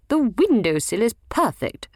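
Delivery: Primrose's voice. A narrator's reading. Primrose insisting, bickering.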